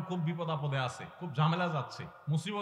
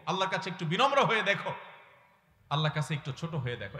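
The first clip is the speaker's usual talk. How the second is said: ordinary talk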